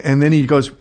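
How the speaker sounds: normal talking voice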